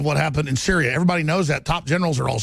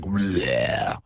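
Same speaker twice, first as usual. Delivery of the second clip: mock bleh; 10 semitones lower than usual. Mocking meme face sound.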